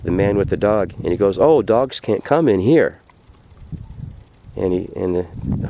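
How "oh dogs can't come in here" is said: higher, drawn-out objection; storyteller voicing a gatekeeper's slow refusal; refusing gatekeeper. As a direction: turn the dog away, stretching the words.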